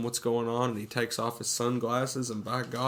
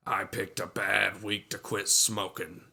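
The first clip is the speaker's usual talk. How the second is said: deadpan movie quote. Retold or imitated. Retelling a character's running joke from the film, lightly put-on deadpan. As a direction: lean on "bad", like a running gag.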